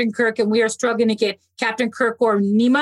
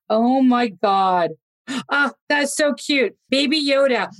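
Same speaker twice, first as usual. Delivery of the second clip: delighted cooing; slower than usual. Real, not acted. Sees Baby Yoda on screen.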